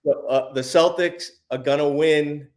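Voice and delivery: put-on a light, half-hearted Boston accent; barely-there Boston accent. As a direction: toss off a mild Boston accent on request. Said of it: "could you give me a Boston accent?".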